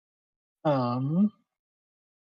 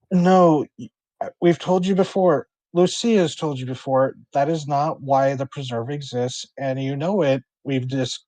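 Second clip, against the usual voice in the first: frustrated phone argument, firm at first; exasperated. Acted. Preserve manager arguing on the phone, exasperated. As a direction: say it as if fed up with repeating yourself. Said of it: "he's just sounds exasperated".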